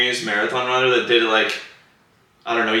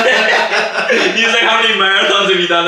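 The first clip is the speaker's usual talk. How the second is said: laughing through the quote; 9 semitones higher, 3 dB louder than usual. Retold or imitated. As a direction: retell it while cracking up. Retelling runner's question while laughing.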